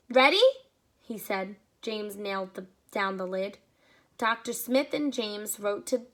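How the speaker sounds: lively read-aloud storytelling; story narration. A narrator's reading. Reading a story aloud to children, lively. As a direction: read it to the kids, paint each scene.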